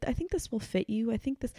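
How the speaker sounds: a hint of a tender, giving grandmother; gentle grandmother. Voices grandmother offering her sweaters.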